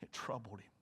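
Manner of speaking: hushed whisper; sermon hush over Jesus' sorrow, whispered. Real, not acted. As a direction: drop to a whisper, grave. Preacher stresses Jesus' grief.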